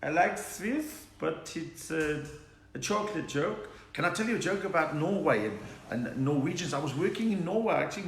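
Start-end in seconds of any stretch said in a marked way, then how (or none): 0.0-2.2 slow, halting Swiss accent try. Shown as a demonstration. Comedian trying out a requested Swiss accent, lisped Swiss voice. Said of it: "A Swiss".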